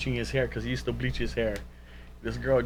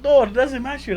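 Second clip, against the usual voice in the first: dismissive; 13 semitones higher, 7 dB louder than usual. Retold or imitated. Retold rejection of nickname.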